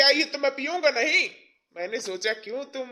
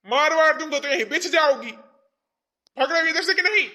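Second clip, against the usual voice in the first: loud, higher-pitched threatening yell; angry threat; 6 semitones higher, 5 dB louder than usual. Acted. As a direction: chase the wife off with threats. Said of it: "अजी, कैसे बोल रहे हैं?".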